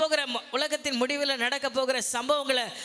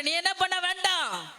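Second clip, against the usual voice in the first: preacher voicing Jesus, climbing to a shout; building repeated quote; 6 semitones higher than usual. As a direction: hammer the line three times, growing each time. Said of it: "இயேசு கிறிஸ்து சொல்றாரு".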